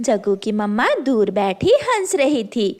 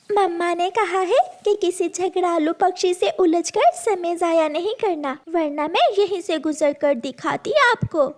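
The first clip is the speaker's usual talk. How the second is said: put-on high childlike pleading voice; a small girl asking to pass, higher; little girl voice; 6 semitones higher than usual. (ऊँची आवाज़ में छोटी बच्ची)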